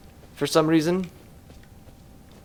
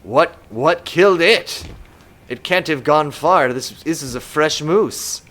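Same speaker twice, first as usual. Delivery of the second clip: slow, deliberate mock wonder; hammed-up tracker's awe, slow; slower than usual. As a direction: play at being amazed, drawing it out. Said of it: "supposed to be looking at it and being like".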